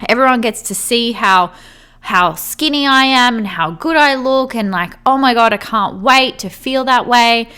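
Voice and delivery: imagine the big reveal, half-acted thrill; euphoric daydream. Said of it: "feel this extreme euphoria".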